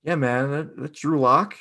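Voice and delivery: lazy stoner voice; tired and stoned. Pretend. Joining co-host's Denver bit, stoned voice. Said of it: "sound tired and stoned".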